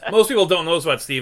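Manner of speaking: words breaking into laughter; laughing. Real, not acted. Teasing about Steve, laughing. Laughing through his bit.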